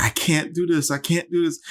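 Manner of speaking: high, strained mock despair; imitating Nicole in labor. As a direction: echo her exhausted pleading. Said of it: "she's like".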